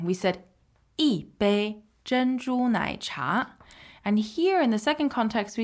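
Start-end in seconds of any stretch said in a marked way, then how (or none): 1.0-3.5 一 falling in fourth tone in 一杯珍珠奶茶. Shown as a demonstration. Teacher recalling 一杯珍珠奶茶, fourth tone on 一. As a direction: slowly sound out 一杯珍珠奶茶 with a falling 一. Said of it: "as a fourth tone".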